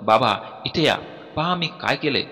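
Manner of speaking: a mild, excited call across the house; calling out to dad. Retold or imitated. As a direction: call dad over, half-shouting with joy. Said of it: "ओरडून बाबांना बोलावलं". (बाबांना आनंदाने हाक मारणे)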